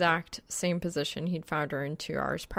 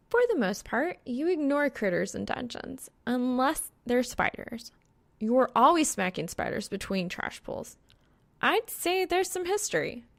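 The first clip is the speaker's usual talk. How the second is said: higher, lightly voiced young woman, dry and teasing; Reaper's voice; 7 semitones higher than usual. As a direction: play Reaper as a sly, knowing girl.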